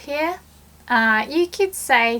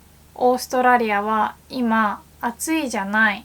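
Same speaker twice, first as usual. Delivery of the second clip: feminine way; faster than usual. Shown as a demonstration. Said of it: "Or more feminine way".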